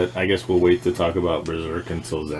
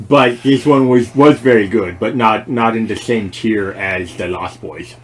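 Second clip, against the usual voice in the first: goon voice; 6 dB louder than usual. Pretend. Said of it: "that's my goon voice".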